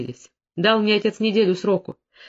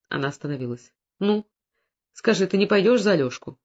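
usual speaking voice

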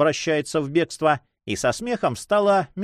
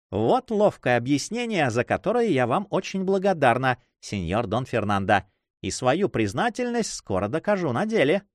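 lightly voiced witty young lady; 2 semitones higher than usual. Young woman thanks the count for his clever explanation, lightly playful. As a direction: lightly suggest a teasing señorita.

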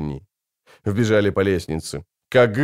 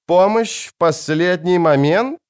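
grating sneer; 7 semitones higher than usual. A narrator's reading. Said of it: "проскрежетал он".

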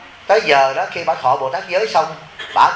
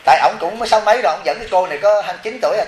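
fast, higher, laughing through it; 4 semitones higher, faster than usual. Real, not acted. Monk laughing about the husband's young fiancée. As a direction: rush it out with amused laughter. Amused at old man's young bride.

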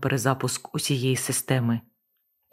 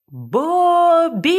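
much higher, much louder drawn-out scream; desperate scream; 14 semitones higher, 7 dB louder than usual. Acted. Panicking captain screaming for Bobby, desperate scream. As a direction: scream the name with all you have.

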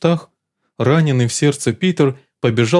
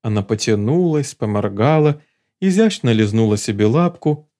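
ordinary delivery, nothing marked

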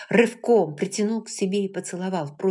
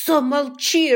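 a sudden loud bark, higher; barked order; 9 semitones higher, 9 dB louder, slower than usual. A narrator's reading. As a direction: bark "замолчи" at her. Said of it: "рявкнул он".

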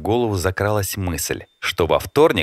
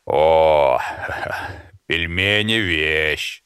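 mouth full; 3 semitones lower, much slower than usual. Acted. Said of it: "громко чавкая".

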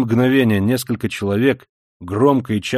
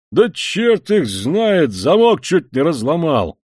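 annoyed grumble; 4 semitones higher, 4 dB louder, slower than usual. Acted. Irritated Koch at door.

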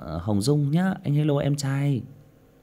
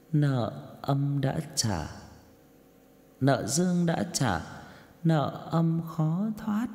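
slow, layered demon voice with echo; demonic double voice; 5 semitones higher, much slower than usual. Shown as a demonstration. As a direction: stretch it out as a haunting spirit. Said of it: "Ví dụ như này".

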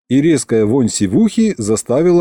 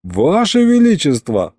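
pleading; 3 semitones higher than usual. Acted. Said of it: "взмолился я".

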